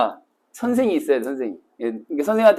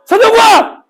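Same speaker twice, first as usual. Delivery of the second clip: much higher, loud call down an alley; calling his own full name into a dark alley; 9 dB louder, slower than usual. Shown as a demonstration. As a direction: shout the full name into the empty street. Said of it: "크게 불러야 돼".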